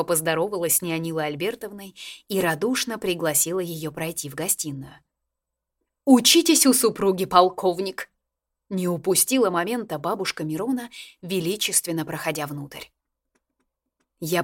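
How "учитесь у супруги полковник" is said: grande dame. A narrator's reading. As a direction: scold him grandly. Grande dame rebukes the colonel.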